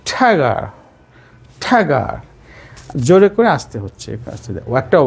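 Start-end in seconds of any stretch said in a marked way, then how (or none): 0.1-2.0 ঠ্যাগা with a firm first syllable, falling away; isolated ঠ্যাগা as a falling model word; English word tune. Shown as a demonstration. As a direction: hit the first syllable of ঠ্যাগা and drop the second. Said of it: "একটা এরকম ধাঁচ".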